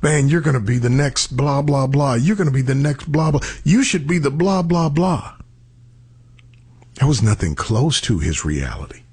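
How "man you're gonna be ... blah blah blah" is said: higher-pitched mock gushing; glad-handing flatterers. Party guests fawn over the big guy, mock glad-handing. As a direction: imitate a crowd piling on empty praise. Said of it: "Everybody's glad handing him".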